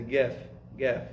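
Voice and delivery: "gef" with a hard g in place of qaf; "gef" said twice with a hard g; northern Yemeni gef. Shown as a demonstration. Teacher imitating northern Yemenis for students. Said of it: "they don't say qaf, they say".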